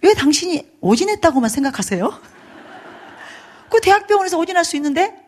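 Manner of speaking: high, loud retold outburst; yelling. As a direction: yell indignantly, imitating a wife challenging her husband. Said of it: "딱 소리 질렀어요".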